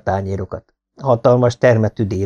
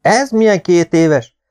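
higher, slow mock indignation; feigned horror; 8 semitones higher, 4 dB louder, slower than usual. The speaker teases Ali, slow mock horror. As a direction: drag it out, theatrically appalled. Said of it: "bevetett szörnyűködést".

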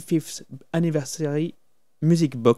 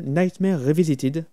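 the album title in a slow, put-on English accent; name the album in a hammed-up English accent; mock English accent. Shown as a demonstration. Naming the album for listeners, mock English accent. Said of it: "avec mon bel accent anglais".

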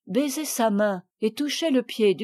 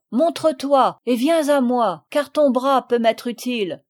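plus fort, lancé au loin; appelle-le à travers le bois; appel crié; 5 dB louder than usual. Acted. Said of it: "il cria". (le commandant appelle le Normand caché, en criant)

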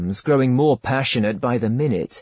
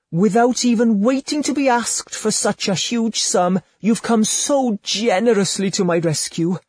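higher, coaxing lady's voice, honeyed and intimate; seductive courtesan; 8 semitones higher than usual. Acted. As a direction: purr it to your lover like a temptress. Courtesan thanks him gushingly.

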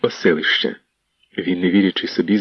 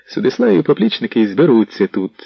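plain reading voice

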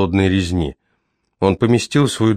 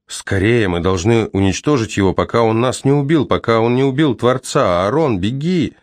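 urgent shout; 4 semitones higher than usual. Acted. Urgent warning to flee.

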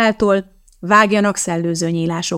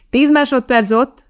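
loud, slow, higher shout across the studio; called out; 6 semitones higher, 5 dB louder than usual. A narrator's reading. Cameraman shouting the countdown to the studio, loud and slow. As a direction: call it out to the whole set. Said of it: "kiáltotta az operatőr".

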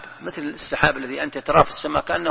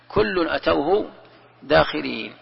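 Quran recitation; slower than usual. Acted. Verse recited slowly.

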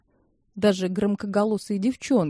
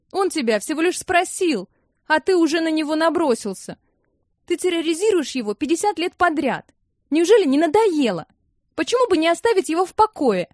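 scolding; 8 semitones higher than usual. A narrator's reading. Nina scolds Samad.

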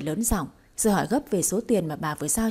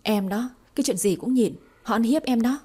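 exasperated raised voice; 3 semitones higher than usual. Acted. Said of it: "lớn giọng bức xúc".

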